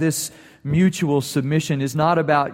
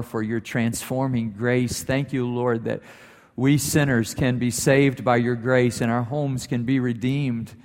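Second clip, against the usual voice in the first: prayer. Acted. Pastor closes in prayer.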